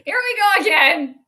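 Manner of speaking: exasperated laughing. Real, not acted. Game resumes after seeming over.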